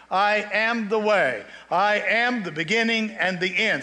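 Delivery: lightly voiced divine I am, slow and solemn; slow proclamation as God. Preacher voicing God to the congregation, slow and solemn. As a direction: proclaim each I am slowly like God speaking. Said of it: "he self-proclaims himself and says".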